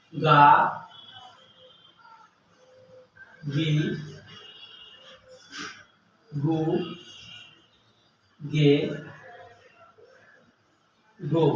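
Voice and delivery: গা, গি, গু, গে, গো each said slowly and separately with long pauses; slow syllable drill. Shown as a demonstration. Teacher drilling students on গা গি গু গে গো, slow and separate. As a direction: spell out গা গি গু গে গো one by one. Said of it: "এর উচ্চারণ হলো".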